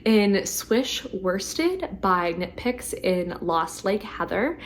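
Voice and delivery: slow words with a failing voice; losing voice. Real, not acted. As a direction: push through a tired voice. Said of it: "I'm losing my voice".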